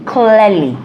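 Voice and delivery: slow, carefully enunciated words; slow and clear. Shown as a demonstration. Slow deliberate enunciation. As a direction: lay out each word slowly for the viewers. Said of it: "enunciating and speaking your words clearly".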